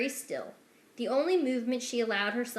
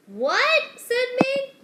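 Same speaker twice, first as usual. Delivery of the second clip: loud, high startled what; sudden loud, high question; 14 semitones higher, 10 dB louder, much slower than usual. Acted. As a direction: blurt it out in alarm. Mig startled.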